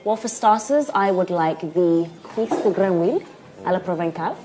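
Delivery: put-on a touch of a posh London accent, ordering with care. A diner orders fancy food in a posh London accent. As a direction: order the French dishes like a polished Londoner. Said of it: "I love this your accent".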